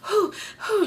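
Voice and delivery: high, breathy huffing; mock shocked puffs of breath; imitated panting. Pregnant woman after the crash, imitated panting.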